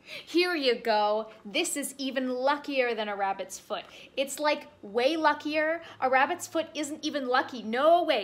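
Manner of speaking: oversell the gift; chatty bunny. Acted. Rabbit convincing the bear, loud eager overselling.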